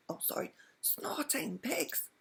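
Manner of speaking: high, slow, soft whispered oath; whispered under the breath so the dragon won't hear. A narrator's reading. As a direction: redo it as a hushed whisper. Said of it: "said Mister Wumble with a whisper".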